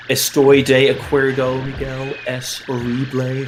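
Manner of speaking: a deliberately bad Spanish accent, lightly put on; terrible Spanish accent. Agreeing with the cohost in a mock bad Spanish accent. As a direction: ham up a clumsy Spanish accent for a joke.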